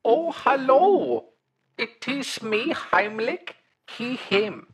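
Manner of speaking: slow, odd fungus-being voice; mushroom creature voice. Acted. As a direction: play a polite mushroom monster caller. Caller plays Heimlich throughout.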